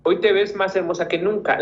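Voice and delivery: "Hoy te ves más hermosa que nunca" brisk, rising on te; quick full emphatic line; emphatic read. Shown as a demonstration. Teacher rereads the whole emphatic sentence, brisk. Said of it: "una equivalencia en cuanto al énfasis".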